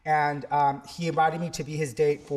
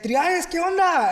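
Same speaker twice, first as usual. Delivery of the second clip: high, louder, delighted hello; excited greeting; 13 semitones higher, 5 dB louder than usual. Retold or imitated. Old student hails his teacher in Times Square, high and excited. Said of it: "And he's like".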